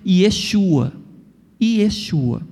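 "Yeshua" with a sh sound, ye-SHU-a; Hebrew pronunciation. Shown as a demonstration. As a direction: say "Yeshua" slowly, stressing the SHU. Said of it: "A pronúncia da época depois do cativeiro". (pronúncia hebraica, "Yeshua" com som de xu)

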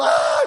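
brief mock scream; re-enacted panicked cry; retold scream. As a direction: yell as you flee. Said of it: "E eu gritando".

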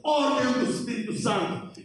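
ordinary talk

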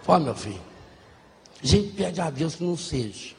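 a low, tired dad reasoning with his son; a hint of a resigned father; lightly voiced father. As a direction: talk it low like a worn-out dad.

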